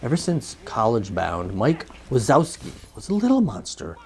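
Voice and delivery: measured presenter's read with punched key words; film synopsis read. Acted. Host summing up Monsters University for viewers, presenter read. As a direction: read it out like a movie preview, pausing between phrases.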